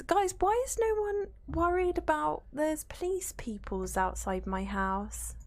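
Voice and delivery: hushed, urgent whisper to the chat. Real, not acted. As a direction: whisper it like the police might hear. Whispered worry about police.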